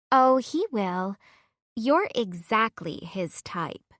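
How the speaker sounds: put-on reassuring girl. Heather reassures her.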